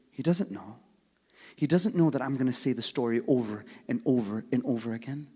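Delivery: rally the whole hall to answer; loud preaching call. Real, not acted. Preacher calling the congregation to a loud salawat, shouting.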